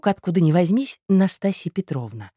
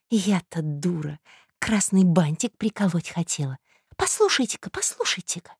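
higher, slowish, secretive gossip; conspiratorial tattling woman; 4 semitones higher than usual. Acted. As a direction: confide the plot you overheard.

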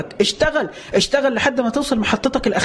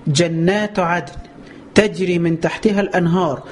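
Quran recitation; 3 semitones lower, slower than usual. Acted.

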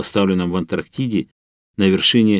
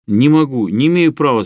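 louder, higher shout of refusal; 6 semitones higher, 6 dB louder than usual. Acted. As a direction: yell "не имею права" in panic. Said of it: "закричал Трухин".

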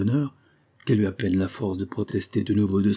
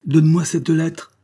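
loud, high, slow demand; angry growled order; 8 semitones higher, 8 dB louder than usual. Acted. Jealous husband ordering his wife to hand over letter, angry. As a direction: demand it forcefully, stretching the words. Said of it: "gronda-t-il".

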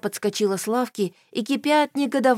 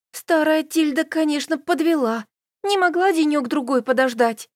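irritated, raised complaint; annoyed grumble; 7 semitones higher, 4 dB louder than usual. A narrator's reading. Elis complaining about old Tilda, raised and irritated.

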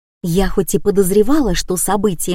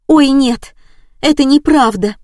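alarmed cry; 6 semitones higher, 5 dB louder than usual. Acted. Neighbours react to the fire.

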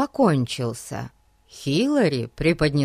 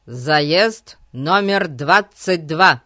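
slow, drawn-out public address call; loudspeaker announcement; 4 dB louder, much slower than usual. Acted. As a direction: boom it over the racetrack. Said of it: "голос из репродуктора".

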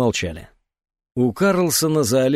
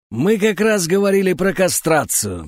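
drawled, louder and higher, smoky madam; smoky old madam; 7 semitones higher, 4 dB louder than usual. A narrator's reading. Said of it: "протянула она прокуренным голосом старой бандерши".

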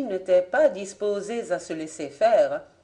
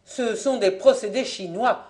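mild exclamation; 3 semitones higher, 4 dB louder than usual. Acted. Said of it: "s'écria Fabien".

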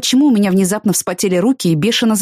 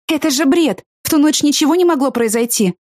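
higher, indignant outburst; shocked protest; 9 semitones higher than usual. Acted. She protests his demand to Danny, higher and indignant. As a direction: protest in disbelief.

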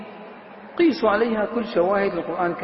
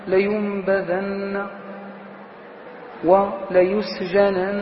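لينبذن drawn out with emphatic final nun; lingering recitation of the verbs; slow Quranic example; much slower than usual. Shown as a demonstration. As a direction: chant وليسجنن slowly. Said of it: "نحو".

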